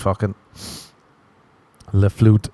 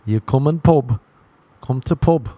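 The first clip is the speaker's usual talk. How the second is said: English pub talk; 3 semitones higher than usual. Retold or imitated. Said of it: "they're like".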